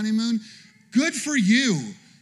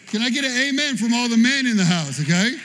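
calling out to the room; 5 dB louder, faster than usual. Real, not acted. Preacher calling to the congregation.

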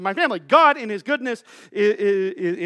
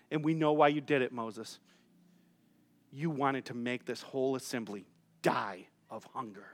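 hushed complaining; 9 semitones lower, 7 dB quieter than usual. Acted. Israelites in the wilderness complaining to Moses, low and quiet. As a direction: complain bitterly under your breath, dragging it out. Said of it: "And they start to complain".

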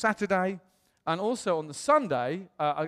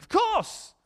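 eager yes; 3 dB louder than usual. Retold or imitated. Friend Joe replying warmly.

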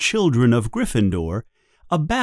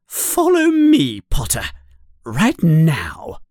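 sharp, high, louder order; stern command; 5 semitones higher, 4 dB louder than usual. Acted. Teacher ordering the caught pupil away, stern and raised. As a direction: snap out the order. McGonagall orders Harry to follow.

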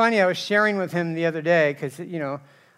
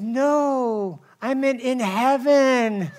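laughing correction; 6 semitones higher, much slower than usual. Real, not acted. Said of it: "laughing correction".

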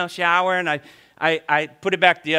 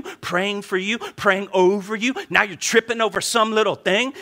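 mock indignant grumble. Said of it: "being a little extra".

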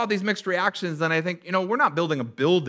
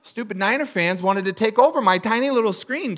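usual speaking voice

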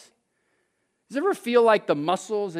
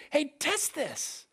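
plain; 7 semitones higher, 8 dB quieter, much slower than usual. Shown as a demonstration. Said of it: "I'll say".

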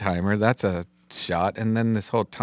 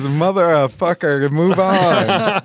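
mock rude retort; 7 semitones higher, 5 dB louder, slower than usual. Mimicking Kenny's reply.

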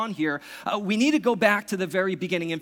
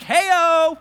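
much higher and louder, showy hey-o; mock boastful shout; 11 semitones higher, 10 dB louder than usual. Pastor imagining a showboating risen Jesus, loud mock cheer. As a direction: shout it like a bragging hero. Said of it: "he's like".

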